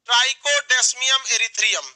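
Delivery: slow, syllable by syllable; slow drill. Shown as a demonstration. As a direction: spell it out slowly for recall. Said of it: "चार बार बोलिए".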